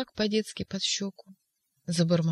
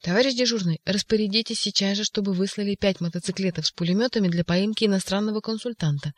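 shouting orders by phone; 3 semitones higher than usual. Acted. Ivan on the phone to the duty officer, shouting. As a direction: demand the police act now. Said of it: "закричал Иван в трубку".

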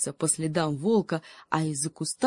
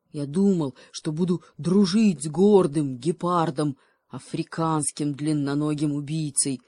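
offended wolf, hurt and reproachful; a proud friend betrayed, scolding; wounded wolf. Acted. Wolf reproaching the cheetah, bitterly hurt.

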